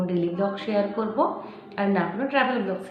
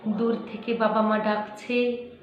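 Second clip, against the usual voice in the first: measured recitation, sinking at phrase ends; restrained dramatic verse reading; poetry recitation. Acted. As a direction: recite the story-poem with heavy pauses. Recites a poem.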